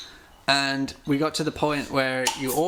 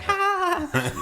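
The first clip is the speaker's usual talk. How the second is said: mock laughter; slower than usual. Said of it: "everyone's like".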